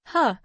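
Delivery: short scornful huh; cold snort. A narrator's reading. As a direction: snort it out dismissively. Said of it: "coldly snorted".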